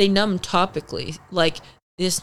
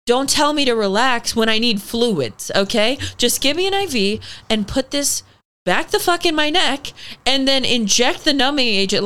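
exasperated, higher-pitched insistence; retold indignant demand; 5 semitones higher than usual. Patient retelling her demands to the staff, indignant. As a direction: lay down the law to the staff, fed up.

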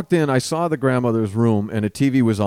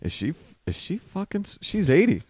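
incredulous; 7 semitones higher than usual. Retold or imitated. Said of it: "so now I'm going".

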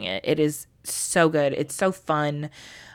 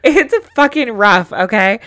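much higher and louder, insisting on "fucking rough"; emphatic outburst; 5 semitones higher, 9 dB louder than usual. Real, not acted. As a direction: blurt it out, half laughing, half pained. Exasperated repeat about book.

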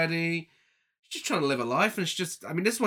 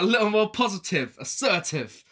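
loud, higher-pitched mock husband; exaggerated husband voice; 5 semitones higher, 4 dB louder than usual. Host mimicking the husband's telling off, exaggerated voice. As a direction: play the husband lecturing, hammed up. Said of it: "he doesn't talk like that".

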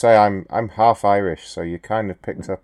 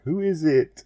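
high-pitched mock lady voice; higher-pitched quoted lady; imitating a lady; 9 semitones higher than usual. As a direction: mimic a woman answering the phone. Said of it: "I heard the lady. She was like".

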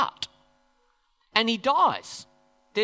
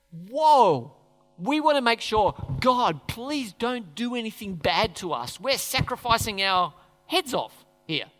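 nervous David; 2 semitones higher, slower than usual. Retold or imitated. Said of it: "David's afraid".

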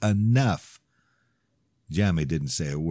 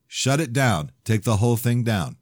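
firm, raised order; angry demand; 6 semitones higher, 5 dB louder than usual. Acted. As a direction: insist hard, angry. Demanding site be removed.

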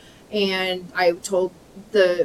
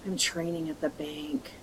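tired mumble; 6 semitones lower, 15 dB quieter than usual. Retold or imitated. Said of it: "but she goes".

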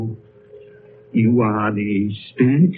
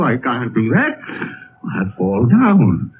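normal talking voice

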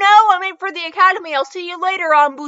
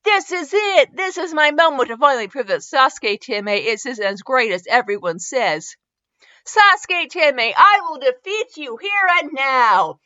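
raised, emphatic boast; determined challenge; 2 semitones higher, 3 dB louder than usual. Acted. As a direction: declare victory before the fight. Acted challenge before sparring match.

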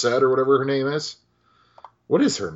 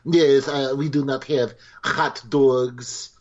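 smarmy French waiter; 3 semitones higher, slower than usual. Retold or imitated. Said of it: "the smarmy French waiter".

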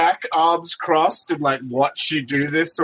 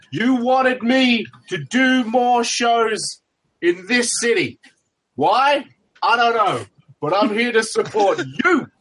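wrestling promo shout; 7 semitones higher than usual. Acted. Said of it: "look back to my fans like".

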